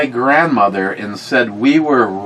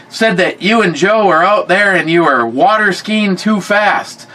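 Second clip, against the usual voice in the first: higher-pitched mock scolding; mad grandfather; 7 semitones higher than usual. Grandfather relaying the aunt's complaint, mildly mock-angry. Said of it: "he starts to get mad".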